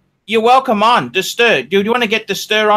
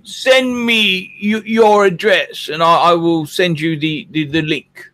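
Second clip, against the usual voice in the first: slow, deliberate put-on British accent. Host addressing a guest, mildly put-on British accent. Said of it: "This accent thing is proving harder".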